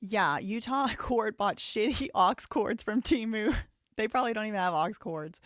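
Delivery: laughing. Real, not acted. Laughing at cheap court audio.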